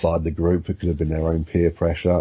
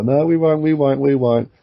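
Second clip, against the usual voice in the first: mock whining peasants; 9 semitones higher, 5 dB louder than usual.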